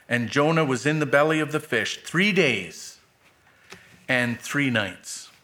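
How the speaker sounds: measured Bible reading, phrases falling at the ends; solemn scripture read. Acted. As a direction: read the Word steadily to the church.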